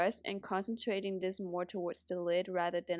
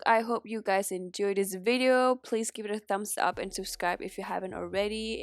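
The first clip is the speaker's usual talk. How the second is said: stuffy nose from a cold; blocked nose. Real, not acted. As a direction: talk with a congested nose. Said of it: "so I sound very congested".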